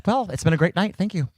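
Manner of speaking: loud, deadpan fake farewell into the mic; mock host sign-off. Host at a dead mic, mock farewell. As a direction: pretend to end the show as the sound dies. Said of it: "went to my mic and went like this".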